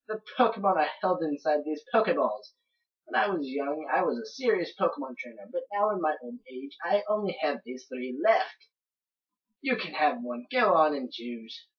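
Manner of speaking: put-on old professor reminiscing, lightly Australian; mild put-on Australian accent for an old trainer; somewhat Australian accent. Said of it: "giving him somewhat of an Australian accent".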